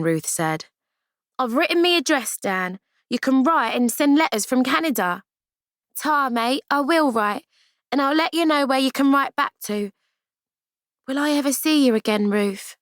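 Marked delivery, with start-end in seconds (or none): 1.4-5.2 put-on young girl voice. Ruth, higher girl voice. 6.0-9.9 put-on young girl voice. Amy, higher girl voice. 11.1-12.8 sobbing question. Acted. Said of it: "Through her sobs".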